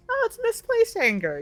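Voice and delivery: acting out a character's sudden insight, in a high voice; mock sudden realization. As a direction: squeak out the realization in mock surprise.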